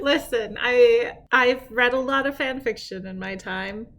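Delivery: a hint of an Old West cowboy; lightly done cowboy voice. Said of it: "Why do you sound like someone who's, like, like, a cowboy in the Old West".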